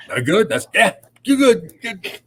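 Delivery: high, loud and laughing through it; laughing reassurance. Retold or imitated. Billy laughs it off after checking his beard, high laughing reassurance. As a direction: laugh while waving it off. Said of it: "and goes".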